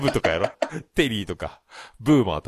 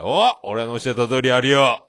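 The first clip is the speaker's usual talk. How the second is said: slow, slightly loud imitation of a boaster; mock bragging; 4 dB louder, slower than usual. Mimicking friend's boast at the counter, mock bragging. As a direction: play the pleased big shot at the bar. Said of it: "お前、でかい声でくさ".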